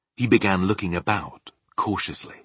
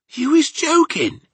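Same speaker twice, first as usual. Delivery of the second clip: high, loud disbelief; incredulous giant; 8 dB louder than usual. Acted. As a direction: exclaim it as a disbelieving BFG. BFG cannot believe Sophie.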